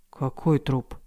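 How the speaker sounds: freezing with dread; холодея; growing chill. Acted. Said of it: "спросил он, холодея".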